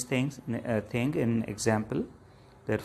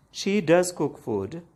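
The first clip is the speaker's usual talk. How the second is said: slow and higher, "does" raised and stretched; emphatic DOES; 5 semitones higher, slower than usual. Shown as a demonstration. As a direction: insist by stressing "does". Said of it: "has to emphasize this point".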